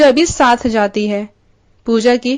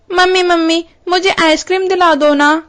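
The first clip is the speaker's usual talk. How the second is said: put-on higher childlike pleading voice; whiny little boy; 5 semitones higher than usual. Priya's son begging mother for ice cream, whiny child voice. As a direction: beg like a small kid wanting ice cream.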